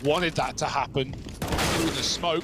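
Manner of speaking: excited esports play-by-play; live play-by-play. Acted. Caster calling the live round for viewers, play-by-play. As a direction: call the round as it happens.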